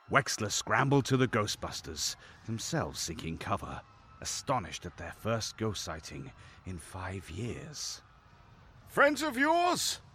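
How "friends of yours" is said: raised voice pitched very high, calling out. Ray asks Wexler over the cackles of the ghost brothers, voice raised. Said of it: "his voice raised over the haunting cackles".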